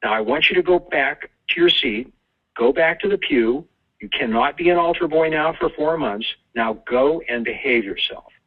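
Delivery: mildly exasperated priest, pitch mostly up; lightly acted priest giving a firm telling-off; frustrated priest. Priest sends Joey back to the pew, mildly frustrated. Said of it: "the priest finally sighs in frustration and says".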